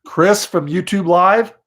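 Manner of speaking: slow, spelled-out repeat for a caller who missed it; slow, clear repeat. Real, not acted. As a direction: repeat your name slowly and clearly so she gets it.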